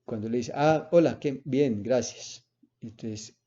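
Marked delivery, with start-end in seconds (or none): 0.5-2.5 cheerful reply. Shown as a demonstration. Teacher shows the reply that releases a question's tension, cheerfully. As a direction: answer the greeting gladly, then let the voice rest. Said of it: "baja la voz y usted ya descansa".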